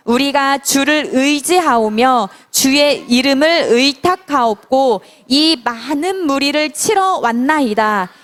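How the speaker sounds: reading aloud. Shown as a demonstration. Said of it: "큰 소리로 읽어봅시다".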